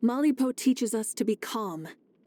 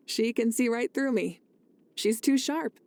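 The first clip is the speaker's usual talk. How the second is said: laughing fondly. Real, not acted. A friend laughing about being seen through, amused. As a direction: chuckle as you admit she sees through you.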